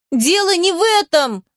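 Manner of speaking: yelling. A narrator's reading. Cecily yelling at Kitty, high frustrated yell. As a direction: shout it out in frustration. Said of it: "завопила она".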